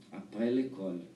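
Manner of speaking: ordinary talk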